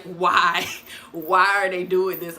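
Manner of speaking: laughing through the question. Retold or imitated. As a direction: giggle out the words. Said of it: "she'd be like, laughing".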